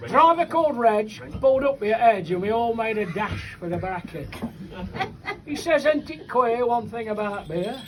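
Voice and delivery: bouncing rhymed verse, line by line; comic poem recitation. Acted. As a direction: recite it to a live crowd.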